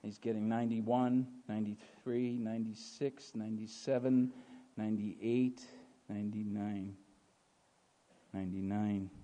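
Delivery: low, soft count with pauses; counting shepherd. Acted. Shepherd counting sheep at the gate, low and measured. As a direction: count off each sheep deliberately, hushed. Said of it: "and he would count".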